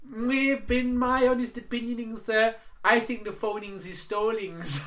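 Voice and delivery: imitated Indian accent. Agent voiced in phone story.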